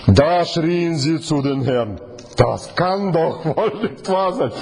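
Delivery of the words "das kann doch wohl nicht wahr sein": amused disbelief. Real, not acted.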